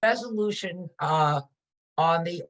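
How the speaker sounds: garbled bad connection; muffled, breaking-up call audio; underwater. Real, not acted. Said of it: "sounds like you're underwater a little bit".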